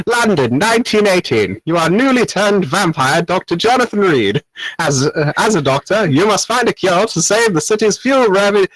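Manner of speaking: British English. Acted. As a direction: read it like a posh old-timey Brit. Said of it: "But in full British English".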